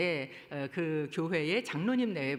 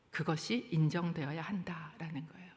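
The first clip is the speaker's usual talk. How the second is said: whisper; 3 semitones lower, 6 dB quieter than usual. Acted. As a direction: drop to a hushed whisper. Sudden drop after loud preaching.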